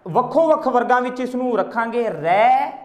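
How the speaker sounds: normal talking voice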